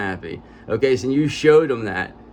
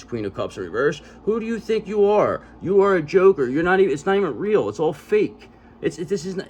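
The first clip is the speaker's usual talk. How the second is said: calm turning angry; 4 semitones higher than usual. Real, not acted. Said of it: "you're getting me aggravated".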